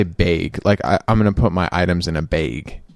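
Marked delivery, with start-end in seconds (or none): 0.0-0.6 "bag" with a flat Midwest vowel, lower. Retold or imitated. Friend teaching how the Midwest says "bag". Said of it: "They say".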